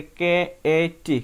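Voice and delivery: CAT split into three separate parts, "কে, এ, টি"; sounded out. Shown as a demonstration. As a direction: spell out "কে এ টি" one piece at a time. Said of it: "তিনটা sound মিলে তৈরি হয়েছে".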